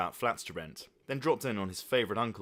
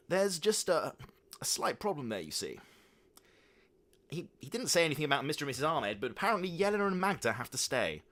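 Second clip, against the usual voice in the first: awkward, hesitant father voice, raised pitch; sheepish father; 6 semitones higher than usual. A narrator's reading. Father sheepishly breaking bad news to his son. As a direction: stammer it out sheepishly. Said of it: "said Father David sheepishly".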